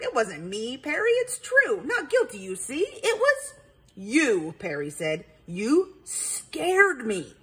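lightly voiced nervous possum; a scared little critter explaining. Perry the possum voice.

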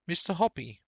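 calling up high and loud to a neighbour; excited shout. A narrator's reading. Mrs Silver shouting up to Mr Hoppy, loud and high. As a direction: throw the name up to the balcony, thrilled. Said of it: "she was shouting".

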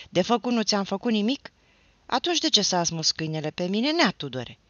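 loud high furious tirade; a drunk, heartbroken lad raging at the neighbour; shouting without fear. A narrator's reading. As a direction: yell it all, losing all measure. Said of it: "să strige fără teamă".

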